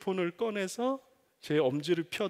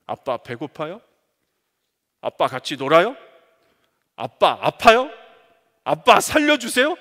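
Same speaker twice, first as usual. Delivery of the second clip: put-on louder, building childlike calls; crying out to father; 12 dB louder than usual. Child of God crying out to the heavenly father, louder. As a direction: cry out like a child begging. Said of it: "부르짖어 기도할".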